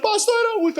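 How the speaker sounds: high-pitched whimpering imitation; mock crying. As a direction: whine it like a tearful old man. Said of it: "por que você tá chorando?". (resposta chorosa imitada, bem aguda)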